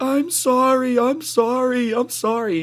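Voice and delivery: high mock kid pleading, fading. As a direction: squeal apologies as he's dragged. Kid dragged by the ear.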